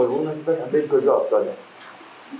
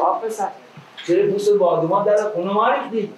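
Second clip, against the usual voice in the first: put-on girl voice; 8 semitones higher than usual. Voices the girl's scolding.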